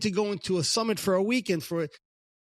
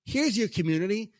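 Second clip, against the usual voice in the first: teasing God; 5 semitones higher than usual. Retold or imitated. God teasing him, voiced.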